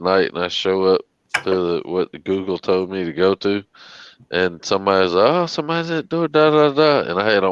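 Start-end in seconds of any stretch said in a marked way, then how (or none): 5.3-7.1 quick mock homeowner. Homeowner quoted, fast.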